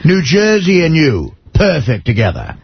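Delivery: slow, posh-toned governor slogan; lightly imitating the governor's ad; hoity-toity New Jersey accent. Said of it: "He would say".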